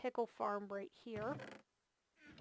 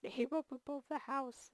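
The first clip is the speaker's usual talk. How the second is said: whispering; 5 semitones higher than usual. Real, not acted. Whispered, amused aside.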